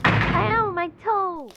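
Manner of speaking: stubbed your toe in the dark; sudden pain. Acted. Friend stubbing a toe while waiting up, yelping in pain. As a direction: yelp jumping high on "Ow".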